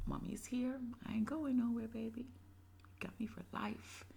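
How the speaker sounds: put-on soft whisper, like comforting a baby; whispered mother reassurance. Mother whispering to her child, tender reassurance. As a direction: hush and promise her you're staying.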